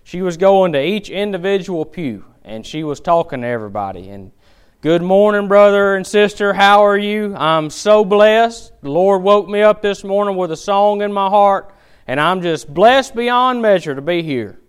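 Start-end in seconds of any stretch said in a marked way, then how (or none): 4.8-14.6 a hint of overdone pious greeting, held up high; over-spiritual churchgoer. Church lady greeting every pew, lightly mocked over-spiritual gushing. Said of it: "talking like that".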